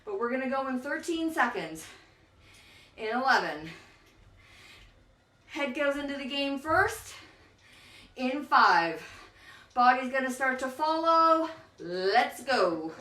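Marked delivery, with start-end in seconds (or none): 3.0-12.9 loud coaching call; rally the class to go; calling out cues. Real, not acted. Instructor cues sprint start.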